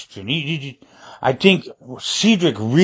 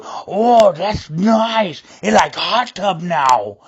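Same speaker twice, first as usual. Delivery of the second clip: pleased, playful voice; 4 semitones higher, much slower than usual. Retold or imitated. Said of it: "After I added that water too".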